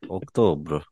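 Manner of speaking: "October" said like an online pronunciation guide, each syllable even and clear; "October" in a robotic dictionary voice; automated pronunciation voice. Shown as a demonstration. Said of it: "You sound like an, an automated".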